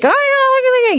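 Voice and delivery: high-pitched frantic squeal; frantic fans. Acted. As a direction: blurt it like a frenzied fan.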